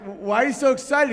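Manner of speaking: high, bright-eyed asking why so excited; mock excited question. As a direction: play it wide-eyed and eager. Comic voicing own dog question.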